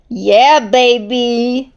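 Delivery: loud happy whoop; cheering. Acted. Shark cheers the rescue with a loud happy whoop. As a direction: celebrate out loud. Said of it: "Shark cheered".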